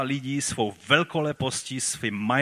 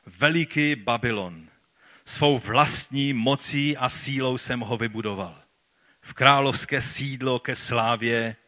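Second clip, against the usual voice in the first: slow, mildly raised royal proclamation; proclaiming aloud. Acted. Preacher reads the Babylonian king's boast, slowly proclaiming. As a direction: call it out slowly, with measured grandeur.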